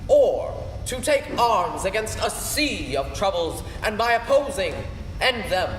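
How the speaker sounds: a touch of theatrical Hamlet; stage recitation. Acted. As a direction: recite it as the brooding prince. The speaker performs the Hamlet soliloquy.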